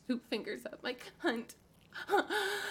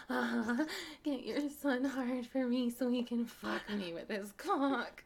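usual speaking voice

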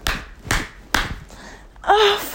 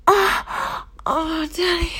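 ordinary talk, nothing marked

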